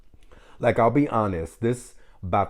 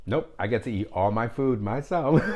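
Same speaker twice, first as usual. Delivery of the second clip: laughing. Real, not acted. Gloats about not sharing food.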